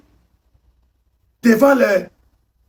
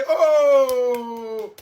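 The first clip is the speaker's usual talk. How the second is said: wailed lament. Acted. Lamenting the national squad list.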